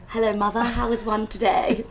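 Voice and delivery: posh English. Acted. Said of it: "I'll be like".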